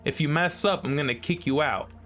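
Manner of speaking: taunting character voice. Acted. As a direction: tease them like a smug puzzle master. Voices the intercom game character.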